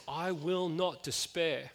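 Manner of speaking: slow, quiet, steady determination; quiet resolve. Retold or imitated. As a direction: inward vow of resolve. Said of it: "there's this determination".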